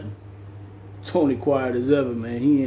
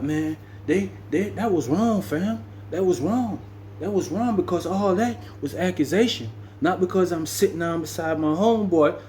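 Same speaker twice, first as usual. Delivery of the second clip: imitated higher-pitched objection; mild protest; 5 semitones higher than usual. Valdosta telling Tony the accusation was wrong, higher-pitched protest. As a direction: insist you were wronged, voice pitched up.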